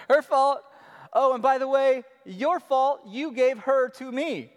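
high, loud petulant blame-shifting; whiny Adam. Retold or imitated. Preacher mocking Adam blaming wife and God. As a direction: whine it like a guilty child pointing fingers. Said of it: "He's like".

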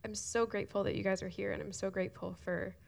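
choked up, half whispered, words breaking into tears; tearful thanks. Real, not acted. Thanking the volunteers who serve on Sundays, tearful and half whispered. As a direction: thank them while fighting back real tears. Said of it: "sorry that I'm crying".

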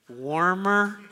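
drawn-out, teasing rising hint; egg-hunt hint. Acted. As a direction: coax a searching child along, stretching the word. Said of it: "what do you start to say".

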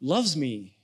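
slow and low, letting each word land; slow, savoring. Shown as a demonstration. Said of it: "just stop on that phrase".

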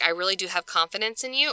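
gently sincere reassurance; mean every word of it; earnest and sincere. Retold or imitated. Paul sincerely encouraging Philemon, earnest and sincere. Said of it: "being earnest and sincere".

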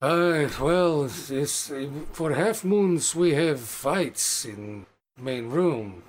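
slow, halting orc barkeep explaining the fights. Acted. Barkeep answers the guest about the fights, halting and slow. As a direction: stumble through it like a gruff orc host.

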